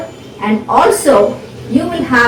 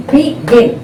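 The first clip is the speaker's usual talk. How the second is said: split into syllables; 2 semitones higher than usual. Shown as a demonstration. Teacher dividing a word for students, begin said syllable by syllable. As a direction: begin as two separate beats, be-gin. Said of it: "one syllable".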